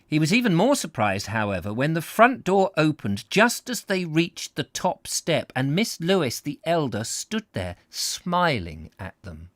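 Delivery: measured, emphatic storybook reading; story narration. A narrator's reading. Narrator reads comic story to listeners, expressive narration. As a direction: savour each descriptive phrase.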